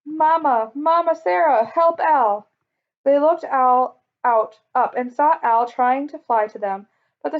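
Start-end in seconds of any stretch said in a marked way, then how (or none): 0.0-2.5 high, loud squawking bird calling for help; a frightened parrot crying out for Mama; mournful parrot cry. A narrator's reading. Parrot Al calling Mama Sarah from the storm, high mournful cry. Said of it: "a mournful cry coming from the sky".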